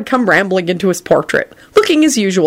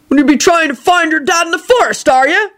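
suspicious questioning; 11 semitones higher than usual. A narrator's reading. Hagrid suspiciously questions Teddy.

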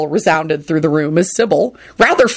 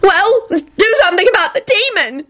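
authoritative; 13 semitones higher than usual. Acted. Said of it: "she said authoritatively".

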